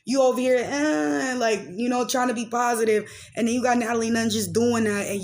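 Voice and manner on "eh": high drawn-out "eh"; drawn-out mock "eh"; imitated reaction noise. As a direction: mimic their strained little "eh". Mimics someone over there reacting.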